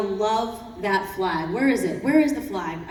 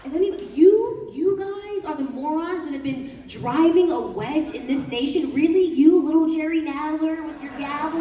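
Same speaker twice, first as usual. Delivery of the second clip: scornful retort; 3 semitones higher than usual. Retold or imitated. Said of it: "I was like".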